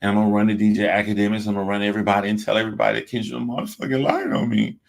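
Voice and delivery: rushed hammed-up panic; mock frantic rush. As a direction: blurt it all out in a hurry like a scared snitch. Mock a rapper running to tell everyone.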